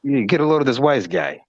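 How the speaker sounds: lightly done New York Italian wise-guy voice; hint of New York Italian wise guy. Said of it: "Italian white people from New York".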